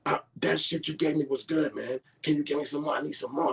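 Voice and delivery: high, pleading mock voice; white dude impression. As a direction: beg in a high put-on voice. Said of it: "He like".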